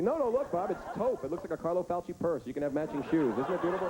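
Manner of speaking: high, gushing doctor voice; high giddy doctor admiring a purse. Retold or imitated. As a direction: sell it like a fashion item. Doctor voiced showing organs.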